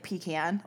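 mother's way of saying "pecan"; mother's pronunciation. Retold or imitated. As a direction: quote "pecan" as mom pronounces it. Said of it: "she says, like".

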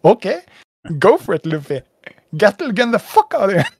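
high, loud mock battle cry; hyped-up cheering. Fan urging Luffy to attack, hyped-up shout. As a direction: egg the hero on, building to a yell.

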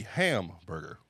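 hamburger with HAM punched and set apart from burger; hamburger, accent early: HAM, then a lighter burger; Japanese-style early accent. Shown as a demonstration. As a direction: lean hard on the first syllable of hamburger. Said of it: "the accent comes earlier, not later".

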